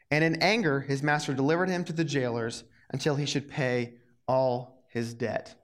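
steady, earnest Bible reading; scripture reading. A narrator's reading. Youth pastor reading scripture to the kids, earnest read. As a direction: read the parable aloud to the youth group. Reads the parable aloud.

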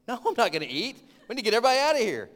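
loud, high urgent shout. Retold or imitated. Urging the hostess to clear the building, loud shout. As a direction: raise your voice, insistent and alarmed. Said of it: "my voice had raised a little bit".

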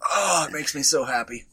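teary from laughter; crying with laughter; after laughing hard. Real, not acted. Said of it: "I'm crying".

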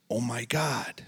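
hushed whispered gasp; family seeing Jen in church, whispered; stunned whisper. Retold or imitated. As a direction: whisper it in disbelief. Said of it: "they were just like".

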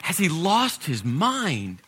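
exasperated disbelief, held back in volume; mildly acted exasperation; impatient, frustrated. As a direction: protest as if asked the same thing twice. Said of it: "getting a little, uh, uh, impatient and frustrated".

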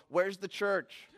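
slow, high, laughing mimicry of her plea; mock her plea with a laugh; mocking echo. Pastor mocking the busy woman's plea.

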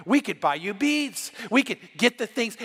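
mock-fawn like catty girls now sucking up; lightly voiced gushing court ladies. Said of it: "the other girls say".

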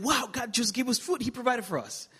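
put-on overjoyed little boy thanking God; excited child. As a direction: squeal it like a boy who just got food.

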